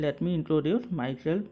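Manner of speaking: each English word spaced out slowly; slow teaching read. Shown as a demonstration. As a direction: read it slowly so students can repeat. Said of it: "English में हम लोग बोल सकते हैं".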